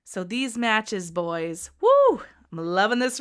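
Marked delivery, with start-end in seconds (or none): 1.8-2.2 a sudden high, loud whoop; real burst of hype; excited woo. Real, not acted. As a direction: cheer it out, carried away by the card. Hyping up the wrestling card.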